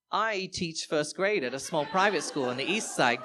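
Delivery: imitating a British accent; put-on British accent. Partygoer answering what he does for a living, in a British accent. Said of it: "pulling out my British greatest hits".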